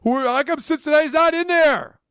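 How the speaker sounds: high, loud mock whine; mock complaining fans; mocking Cincinnati fans whining; whiny fan. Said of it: "here come the Cincinnati Criers".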